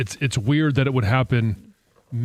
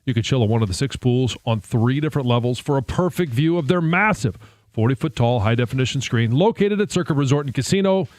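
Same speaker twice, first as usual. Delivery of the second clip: ad read. Acted. Host reads a sponsor ad.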